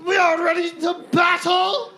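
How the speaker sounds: high, rousing British battle cry; British accent. Acted. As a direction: declaim like a British general firing up troops. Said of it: "with the British accent".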